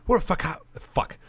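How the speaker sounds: put-on speech in an Irish accent; rousing speech in Irish accent. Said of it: "This is all Irish voices".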